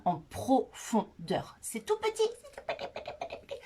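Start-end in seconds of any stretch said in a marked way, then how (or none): 1.6-2.2 squeaky little voice, much higher, to show how small; tiny voice. Shown as a demonstration. Explaining tiny peptides to the girls, in a squeaky high voice. 2.2-3.6 high breathy whisper fading to nothing; whispered tiny. Shown as a demonstration. Explaining tiny peptides, fading into a whisper.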